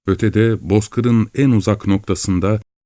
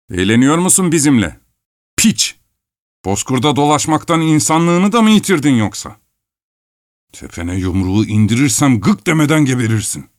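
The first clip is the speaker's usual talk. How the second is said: furious threat; 6 semitones higher than usual. Acted. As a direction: spit the insult and threat. Yemelyan threatens the shepherds. (öfkeyle bağıran tehdit)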